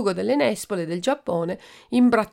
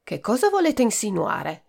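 brusque; 4 semitones higher than usual. Acted. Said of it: "domandò bruscamente il cavalier Pomodoro".

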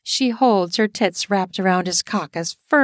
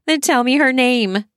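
higher, louder sharp demand; 5 semitones higher, 4 dB louder than usual. A narrator's reading. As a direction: insist on the name. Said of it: "she demands".

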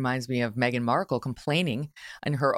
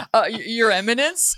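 louder, higher "Your Eminence" correction; pointed correction; 8 semitones higher, 5 dB louder than usual. Retold or imitated. The cardinal's aide, correcting her with a loud pointed reminder. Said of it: "his right-hand man said".

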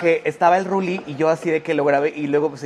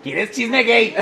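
secretive gossip voice; 5 semitones higher, 3 dB louder, much slower than usual. Acted. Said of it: "Porque es como de secreto".

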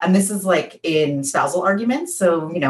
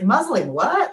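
incredulous; 5 semitones higher, slower than usual. Retold or imitated. Surprised at coach's word.

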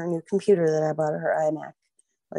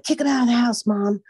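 put-on higher, louder pleading teen; daughter pleading; 7 semitones higher, 5 dB louder than usual. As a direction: beg like a daughter asking her mom to take sides. Daughter voiced in retold family fight.

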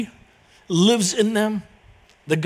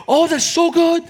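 higher, delighted burst with a smile; light up with joy at the good news; delighted exclaim; 10 semitones higher, 4 dB louder than usual. Retold or imitated. Big smile, he goes.

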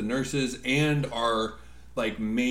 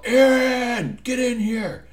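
doctor's high, loud summoning shout; imitated yell; 13 semitones higher, 6 dB louder, slower than usual. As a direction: yell the name long and high like an irate boss. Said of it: "I hear this doctor yell".

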